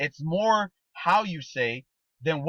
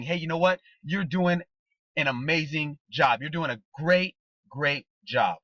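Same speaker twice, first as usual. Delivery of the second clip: sincere praise. Shown as a demonstration. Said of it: "My tonal patterns are different".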